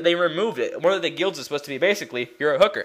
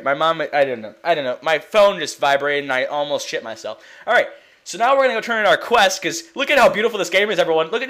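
usual speaking voice

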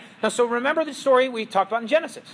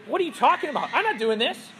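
flat, dismissive no; blunt refusal; 3 semitones higher, faster than usual. Acted. Pharaoh drops the sarcasm and refuses Moses outright. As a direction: shut them down directly. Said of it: "the sarcasm perhaps turns into directly".

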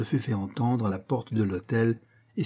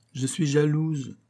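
slow, higher, coy simper; 5 semitones higher, slower than usual. A narrator's reading. Young wife confesses jealousy to the marquise, coy and simpering. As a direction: lisp it out coyly, drawn out. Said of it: "minauda Lasthénie".

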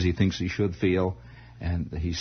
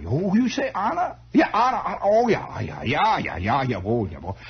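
put-on vague German accent; 7 semitones higher than usual. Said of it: "they all had this vague German accent".

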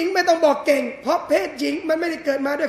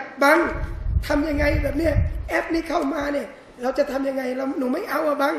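helpless wife pleading. Acted. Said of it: "แกล้งโง่บ้าง".

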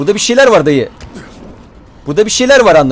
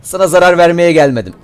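put-on calm a child down, playfully; mock soothing; 3 semitones lower than usual. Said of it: "Seni ben sakinleştireyim evladım".

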